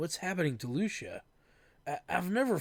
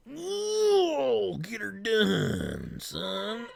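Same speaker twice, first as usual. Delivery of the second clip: excited whoop; 7 semitones higher, much slower than usual. Acted. Cheers in trucker voice.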